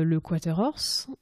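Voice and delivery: quarter horse dit à la française, sans accent anglais; French accent. Shown as a demonstration. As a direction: prononce quarter horse avec l'accent français. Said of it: "je le dis avec l'accent français". (avec l'accent français)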